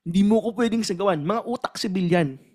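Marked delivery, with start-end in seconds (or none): 0.0-1.2 mock angry reply. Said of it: "ipaliwanag yung side mo ng angry manner".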